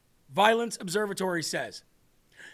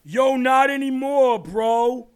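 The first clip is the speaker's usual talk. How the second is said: Adams voice; 2 semitones higher, 5 dB louder, slower than usual. Retold or imitated. Continues Adams impression.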